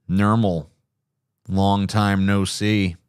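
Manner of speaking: slow, low, deadpan lazy cat; low lazy Garfield voice. Shown as a demonstration. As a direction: drag it out, lazy and heavy. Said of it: "down here kind of voice".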